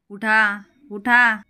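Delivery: furious loud yell; shouting. A narrator's reading. Bhairavi shouting at the guests to get up. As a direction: shout them out of the house. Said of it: "Bhairavi मोठ्याने ओरडते".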